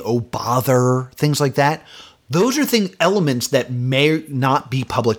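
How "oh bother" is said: mock Pooh. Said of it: "him saying".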